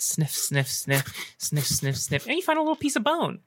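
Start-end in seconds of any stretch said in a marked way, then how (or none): 0.0-2.3 sniffing the air. Acted. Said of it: "sniffing around this fire pit".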